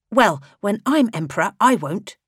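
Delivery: put-on high, bright child's voice asking father; a boy impatient for the show; young prince pestering his father, high childish voice; eager young boy.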